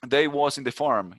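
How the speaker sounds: slow Southern US drawl, mocking cowboy speech; a light imitation of a Southern US accent; mock Southern twang. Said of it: "con ese tonito al final". (leve imitación de acento sureño de Estados Unidos)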